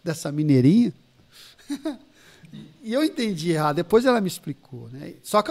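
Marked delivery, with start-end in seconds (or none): 0.0-0.9 retold disappointment. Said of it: "Aí na hora eu fiquei triste".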